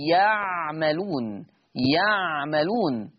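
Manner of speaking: يعملون drawn out slowly with the ya of absence; yaʿmalūn with ya. Shown as a demonstration. Teacher models يعملون for students, slow and deliberate. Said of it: "فيقرأ بياء الغيب هكذا".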